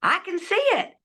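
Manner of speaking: high, excited calling out; mock shouting. The dying father calling out, high and excited. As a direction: cry it out in wonder. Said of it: "he starts shouting".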